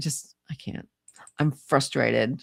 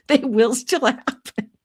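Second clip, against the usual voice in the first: higher, slower sing-song warning; chirpy mock-threat to the chat; playful teasing promise; 7 semitones higher, 4 dB louder than usual. Real, not acted. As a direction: tease the viewers that the rants will come back.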